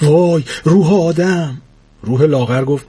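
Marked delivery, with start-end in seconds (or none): 0.0-1.6 frightened. Acted. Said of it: "با ترس گفت".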